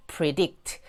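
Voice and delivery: "predict" with the weight on the second syllable; popped P, then stressed DICT in "predict". Shown as a demonstration. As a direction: say "predict" slowly, leaning on DICT. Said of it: "여기는 강세가 뒤로 가거든요".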